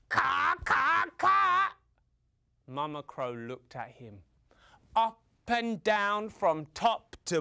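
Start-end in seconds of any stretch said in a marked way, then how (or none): 0.1-1.7 high, rising, loud last caw; crow's love declaration. Acted. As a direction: declare love in eager caws. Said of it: "with his declaration of love".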